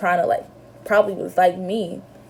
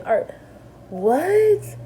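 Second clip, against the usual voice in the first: stunned what; 8 semitones higher than usual. Retold or imitated. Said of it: "I'm thinking".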